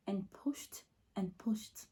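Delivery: breathless whisper, slow; barely voiced, drained of strength. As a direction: whisper the pushing as if spent. Reliving exhausting pushing in labor.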